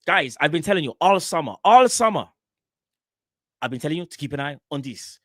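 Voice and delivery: lightly voiced transfer reporter, hyped; mimicking a football transfer insider gassing up news; Fabrizio Romano impression. Mate mimics the transfer reporter to his co-host, lightly hyped. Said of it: "I can't do the accent, but it's the stuff that he says".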